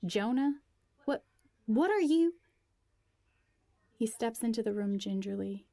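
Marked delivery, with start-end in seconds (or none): 0.1-2.4 much higher, louder startled questions; high, loud shocked cry. Acted. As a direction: blurt it out in disbelief. Shocked at Jonah's arrival.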